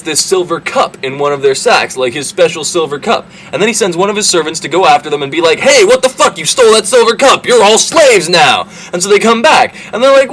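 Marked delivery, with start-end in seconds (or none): 5.6-8.7 high, sing-song accusing voice; mock servant accusation. Servant chasing the brothers, accusing them in a high sing-song.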